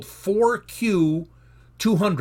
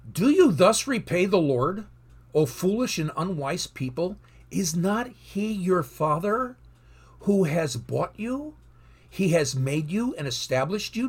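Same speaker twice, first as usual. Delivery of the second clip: scripture reading; 3 semitones higher than usual. Acted. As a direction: read the verse aloud with weight. Reads scripture.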